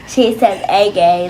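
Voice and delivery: "again" said the British way, as "a-gain" rhyming with "rain", lightly mocking; a teasing hint of British "again" copying mom; mock British accent. Daughter copies how mom says "again", a hint of British. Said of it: "like British".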